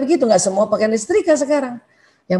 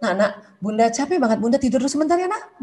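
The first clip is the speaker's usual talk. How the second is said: put-on softer, gentle words to a child; 5 dB quieter than usual. Shown as a demonstration. Mother softly telling her child she needs a short nap, gently. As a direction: tell the kid kindly you need a nap. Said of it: "Bilang sama anak boleh kok".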